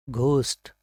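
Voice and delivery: ghost said with a breathy Hindi "gh"; common mispronunciation. Shown as a demonstration. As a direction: aspirate the opening of ghost, "ghost". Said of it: "इसको अक्सर हम mispronounce करते हैं".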